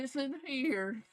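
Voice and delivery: slow, drawn-out country accent. Shown as a demonstration. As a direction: lay on the country drawl. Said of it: "That's my country accent".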